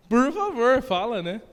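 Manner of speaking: loud, high urgent plea; begging her to just say it; pleading. Retold or imitated. Pressing the pastor's wife to speak, loud urgent begging.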